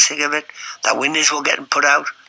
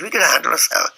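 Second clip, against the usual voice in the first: higher-pitched mock Scottish reply; imitated Scottish accent; 4 semitones higher than usual. One of three Scots answering Viv's challenge, imitated Scottish accent. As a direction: imitate a cocky Scot's accent. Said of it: "In a Scottish accent".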